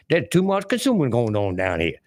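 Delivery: lightly imitated old-time Carolina senator; a hint of Southern politician. Commentator quoting a senator on the economy, mock Carolina senator. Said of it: "Carolina, uh, senator way back".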